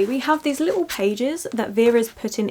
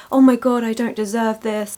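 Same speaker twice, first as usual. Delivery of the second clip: louder burst then self-deprecating "I don't deserve this"; mock apologetic; 4 dB louder than usual. Vlogger mocking women refusing praise, apologetic. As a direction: gush and shrink away from the praise. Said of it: "really apologetic".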